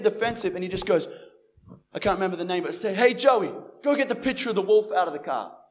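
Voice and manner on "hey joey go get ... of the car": louder mock command to a sidekick; imitated pack leader giving orders; calling out an order. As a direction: call over to your lackey, raised voice. Retells gang leader ordering his friend.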